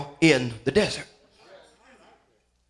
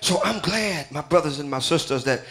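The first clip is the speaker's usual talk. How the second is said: hushed preaching; 5 dB quieter than usual. Acted. Quiet sermon close.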